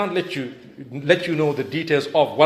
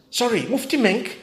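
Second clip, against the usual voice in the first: a pitched-up questioning surprise; surprised recognition; 6 semitones higher than usual. Retold or imitated. Woman on plane recognising him, surprised. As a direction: act out her startled recognition.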